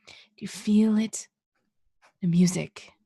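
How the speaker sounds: hushed mystical whisper. Acted. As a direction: breathe it like a secret. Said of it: "director whispering to inspire singer".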